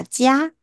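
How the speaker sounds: 加 with a clear y glide before the a; emphasized ya glide. Shown as a demonstration. Teacher leading students to repeat, ya emphasized in 加. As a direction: bring out the ya inside 加. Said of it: "特别强调一下呀给它".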